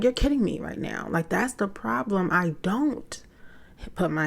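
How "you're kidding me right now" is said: incredulous. Retold or imitated. Mother stunned son flees.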